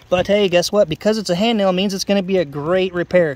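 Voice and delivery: loud, punchy mock endorsement; sarcastic. Real, not acted. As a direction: sell it with heavy sarcasm. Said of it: "Sorry for the sarcasm".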